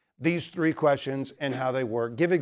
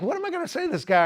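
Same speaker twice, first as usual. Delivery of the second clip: panicky inner voice; 13 semitones higher, faster than usual. Retold or imitated. Inner panic quote at banker.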